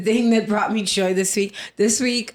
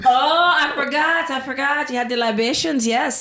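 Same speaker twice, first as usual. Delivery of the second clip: pirate voice; 5 semitones higher than usual. Acted. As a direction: slip into a hearty pirate. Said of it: "the pirate voice popped out".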